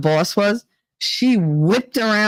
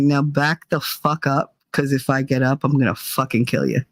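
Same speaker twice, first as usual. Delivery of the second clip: calm menace; 5 semitones lower than usual. Retold or imitated. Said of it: "But I was real calm".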